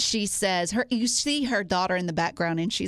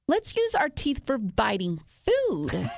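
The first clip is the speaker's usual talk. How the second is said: mock daycare teacher; 2 semitones higher than usual. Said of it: "what I had to say was".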